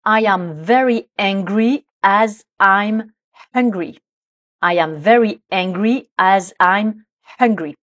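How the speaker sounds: slow, careful model sentence, ANGRY against HUNGRY; prononciation précise. Shown as a demonstration. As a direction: say ANGRY and HUNGRY slowly and distinctly. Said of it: "il faut bien être précis, précise sur la prononciation". (prononciation lente et soignée de « angry » et « hungry »)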